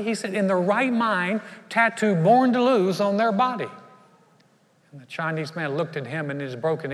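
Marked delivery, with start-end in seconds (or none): 0.0-3.7 incredulous. Retold or imitated.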